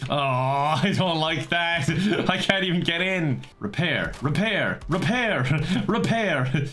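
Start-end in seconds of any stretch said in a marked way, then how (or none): 3.6-6.7 wizard incantation. Pretend. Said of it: "I'm like a wizard, I have to say it".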